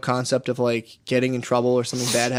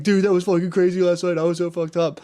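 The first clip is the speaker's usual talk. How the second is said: laughing recap; 5 semitones higher than usual. Retold or imitated. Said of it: "we were all laughing".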